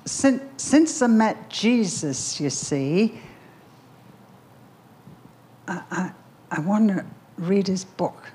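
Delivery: put-on halting Liverpool street-kid accent. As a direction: imitate a Liverpool lad, slowly feeling for the words. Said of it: "and I'll use the accent".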